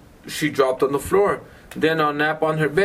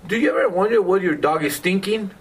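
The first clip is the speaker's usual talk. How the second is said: higher, lilting storybook question; reading to children; 5 semitones higher, faster than usual. A narrator's reading. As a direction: read it aloud to a curious child. Reads book to child.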